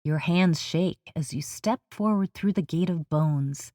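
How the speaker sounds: slow, measured meditation narration with long pauses; guided meditation. Acted. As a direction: lead the listener step by step into the journey.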